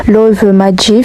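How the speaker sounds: slow, careful English accent on the T-shirt words. Real, not acted. Reading a comment's English words, in English accent. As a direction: say Love Magic the English way. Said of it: "désolé pour mon accent anglais".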